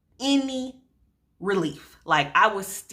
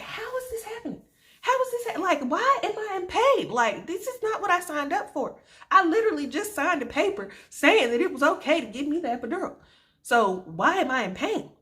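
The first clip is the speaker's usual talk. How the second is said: pitched way up, distressed and pleading; high panicked whine; 11 semitones higher than usual. Retold or imitated. Mother in labor panicking to herself, high panicked whine. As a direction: squeal it out like the pain is unbearable. Retold panic over returning pain.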